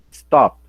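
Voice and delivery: "Stop" said loud, with a punch; strong final sound. Shown as a demonstration. Teacher showing students where "Stop" is strong, stressed firmly. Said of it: "Olha o som forte no final".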